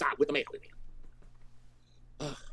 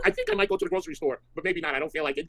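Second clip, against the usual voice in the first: much higher, whiny put-on voice; mocking Carrie; 9 semitones higher, 4 dB louder than usual. Mocking Carrie's excuse about the grocery store, high whiny voice. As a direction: squeak it out like a lazy whiner. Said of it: "She said".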